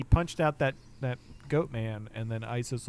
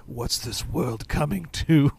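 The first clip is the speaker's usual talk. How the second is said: lightly voiced slow, loud dismay; mock lament; 5 dB louder, slower than usual. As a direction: draw it out like a theatrical grumbler. Imitating Gonfal's old-fashioned lament.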